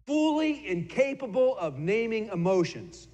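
slow, amused delivery with a laugh; laughing punchline. Real, not acted. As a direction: savour the joke. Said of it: "Pretty good, isn't it?".

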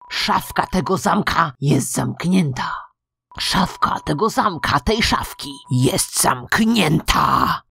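ordinary talk, nothing marked

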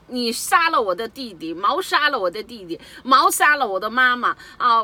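loud, high accusing cry; angry accusing shout. Retold or imitated. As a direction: hurl the accusation at the police. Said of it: "我当时就气怒了". (愤怒地高声控诉)

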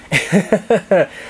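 amused laugh. Real, not acted. Laughs after mocking critics.

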